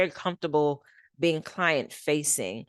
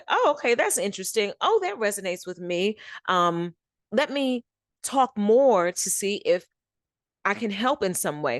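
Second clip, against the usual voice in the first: lightly voiced interested listener, pitched higher; 4 semitones higher than usual. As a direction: imitate someone intrigued by a pitch, voice lifted.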